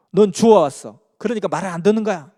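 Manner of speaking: put-on loud, high scolding of a child; scolding parent. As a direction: yell at the kid like an exasperated neighbour. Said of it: "부모들이 그 자녀들한테 야단치는 걸". (아이를 꾸짖는 부모의 높고 큰 호통)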